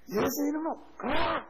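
high, slow, forceful imitation of a prayer command; retold healing command. Deaconess casting out the affliction, re-enacted commanding cry. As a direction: draw it out and thrust the last word.

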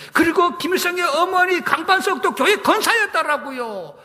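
ordinary talk

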